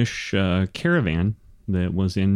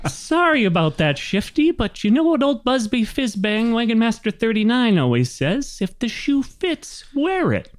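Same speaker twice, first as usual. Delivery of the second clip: high-pitched, bossy little wagon master; chatty old gnome; 13 semitones higher than usual. Acted. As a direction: rattle on as a high-voiced oblivious gnome. Gnome excuses the nickname.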